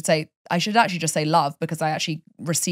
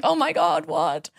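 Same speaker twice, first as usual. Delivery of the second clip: shocked surprise; slower than usual. Retold or imitated. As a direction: jump up in shock. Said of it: "And I was like".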